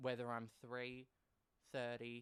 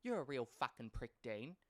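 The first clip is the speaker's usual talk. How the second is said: louder, scornful telling-off; mum telling him off; 3 semitones higher, 5 dB louder than usual. Retold or imitated. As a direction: spit the insult at the husband. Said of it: "Mum's like".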